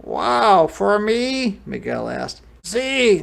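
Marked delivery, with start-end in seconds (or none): 0.0-1.6 high, loud delighted wow; excited kid receiving a gift; amazed little boy. Acted. Boy gets a surprise gift. 2.6-3.2 high, loud, cheerful yes; happy storybook grandpa; smiling grandfather. A narrator's reading. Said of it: "Abuelo smiled".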